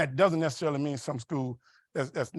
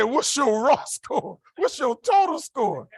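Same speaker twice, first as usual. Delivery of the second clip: counselor voice; 7 semitones higher, 3 dB louder, much slower than usual. Retold or imitated.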